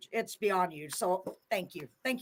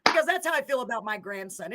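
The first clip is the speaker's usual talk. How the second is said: choked up; 7 semitones higher, 18 dB louder than usual. Real, not acted. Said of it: "I'm already crying".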